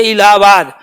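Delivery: इलाहाबाद with extra weight on ला; stress on ला. Shown as a demonstration. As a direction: lean on the ला in इलाहाबाद. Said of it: "ला पे जोर दे देते हैं".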